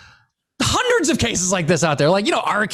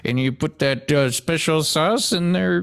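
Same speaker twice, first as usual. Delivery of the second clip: Bill Cosby; 2 semitones lower than usual. Retold or imitated. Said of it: "like that one scene they kept showing".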